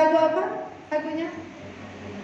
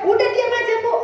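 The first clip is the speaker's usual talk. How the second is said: higher-pitched imitated brush-off; curt nurse; 5 semitones higher, faster than usual. Nurse hushing a pleading patient, imitated curt tone. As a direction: play an impatient nurse shushing a patient. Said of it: "Susternya pun ketus-ketus, judes-judes".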